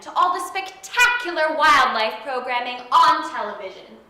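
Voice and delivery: courtroom lawyer. Acted. Mock courtroom prosecutor questioning.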